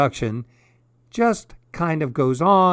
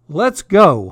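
high, loud rallying call; honked call; 4 semitones higher, 7 dB louder than usual. A narrator's reading. Goose joins her alarmed friends, honked rallying call. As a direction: honk it out, keen to be off. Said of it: "honked Goosey Lucy".

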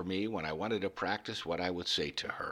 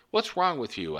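higher, louder angry rant; 7 semitones higher, 4 dB louder than usual. Retold or imitated. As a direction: rant at the sunflowers in frustration. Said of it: "I'd rant at the sunflowers".

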